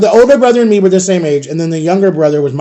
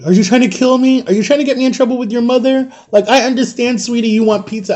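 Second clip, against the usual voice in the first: higher-pitched pleading scolding; exasperated mother; 6 semitones higher than usual. Retold or imitated. Friend's mother asks if he's trying to kill her, imitated exasperation. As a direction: imitate a fretful mom telling off a child.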